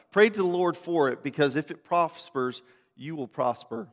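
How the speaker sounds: measured public Bible reading; steady, formal reading from the page; scripture reading. Real, not acted. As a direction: read the passage aloud to a congregation. Reads scripture aloud to congregation.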